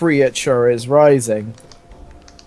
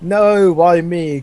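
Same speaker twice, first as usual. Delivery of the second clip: mock cry; 3 semitones higher, much slower than usual. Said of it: "cried the Thrashamore".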